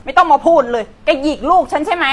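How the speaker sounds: mother cutting the nanny off; angry accusation. Acted. (แม่ต่อว่าอย่างโกรธ)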